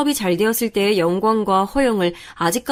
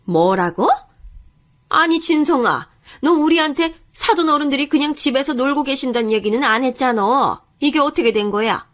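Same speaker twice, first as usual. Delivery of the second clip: indignant mother; 4 semitones higher than usual. Acted. Mother questioning her son about the in-laws, indignant. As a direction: demand an explanation like an affronted mother.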